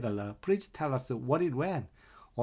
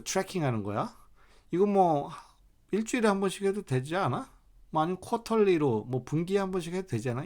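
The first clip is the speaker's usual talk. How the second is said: a mildly raised, challenging question; mock questioning coworker; 2 semitones higher than usual. Coworker questioning why it's tracked monthly. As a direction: push back on the monthly tracking. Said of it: "이런 질문을 던졌다고".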